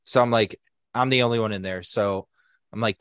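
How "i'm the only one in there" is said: ordinary talk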